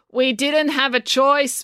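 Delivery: loud, high, drawn-out protest; said loudly. A narrator's reading. Finn interrupting the mayor's speech, loudly. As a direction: pipe up slowly and high so everyone hears. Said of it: "Finn said loudly".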